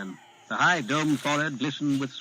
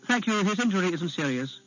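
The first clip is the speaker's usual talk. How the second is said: put-on higher, polite young prince; boy prince voice; 6 semitones higher than usual. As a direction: sound like a poised child royal. Young prince answers the official.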